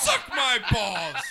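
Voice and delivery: loud, high, drawn-out gloating; excited taunt. Real, not acted. Taunting a beaten friend on air, excited. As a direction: crow it slowly at the beaten rival. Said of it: "That's the most excited I've seen him".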